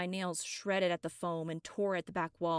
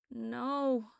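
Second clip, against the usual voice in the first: raised, higher cry of no; a louder sleep-talking no; louder protest; 6 semitones higher, 5 dB louder than usual. Acted. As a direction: push the no out louder in her sleep. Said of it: "she said louder".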